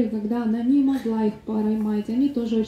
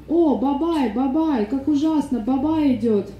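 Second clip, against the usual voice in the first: slightly raised, play-acted alarm; mock frightened cry; 3 semitones higher, slower than usual. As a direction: cry out in mild pretend horror. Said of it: "и вдруг закричала".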